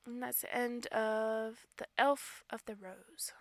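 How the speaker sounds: hushed storyteller whisper. Acted. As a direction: whisper the ending softly.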